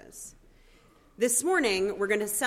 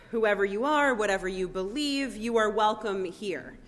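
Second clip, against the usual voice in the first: ringing declaration. Acted. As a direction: declare the welcome to the room. Proclaims the welcome words.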